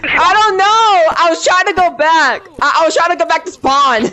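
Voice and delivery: pleading it was not your fault; frustrated protest. Real, not acted. Defending after dying.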